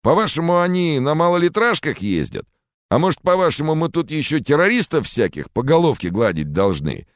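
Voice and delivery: high, loud indignant roar; furious roar. Acted. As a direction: roar your outrage at the accusers. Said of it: "взревел араб".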